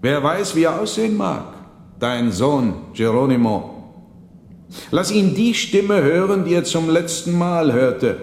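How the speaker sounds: high, loud, ominous monk. A narrator's reading. Monk challenges the old man at table, high and commanding. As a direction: summon the dead with rising menace. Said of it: "fuhr der Mönch fort".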